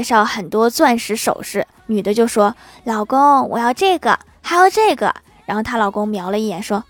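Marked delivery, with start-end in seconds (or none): 2.8-5.1 louder, eager wheedling wife; lightly acted pleading wife; eager demanding wife. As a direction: wheedle a spouse for gifts, voice climbing. Wife pleading with husband for diamonds.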